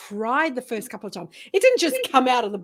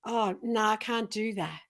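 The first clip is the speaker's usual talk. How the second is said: doubtful women; 3 semitones lower, 7 dB quieter than usual. Retold or imitated. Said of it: "they just look at me and go".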